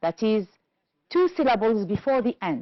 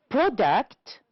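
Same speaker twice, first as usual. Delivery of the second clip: product with PROD stressed; stress on first syllable; 2 semitones higher than usual. Shown as a demonstration. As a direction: lean on the start of product. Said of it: "The first one".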